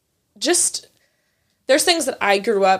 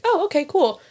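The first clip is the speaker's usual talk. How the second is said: mom caught off guard; 7 semitones higher than usual. Retold or imitated. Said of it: "And she's like".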